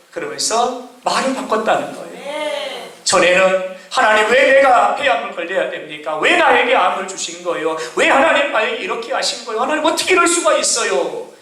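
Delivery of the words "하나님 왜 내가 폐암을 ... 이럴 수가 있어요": mild acted grievance; resentful complaint. Father asks God why he has cancer, resentful complaint. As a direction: question God in rising protest. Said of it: "원망하고 불평하고".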